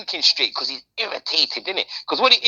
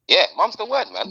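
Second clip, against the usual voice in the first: upbeat catchphrase; 3 semitones higher than usual. Pretend. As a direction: toss the catchphrase up lightly, lifting "word". Catchphrase repeated, bright.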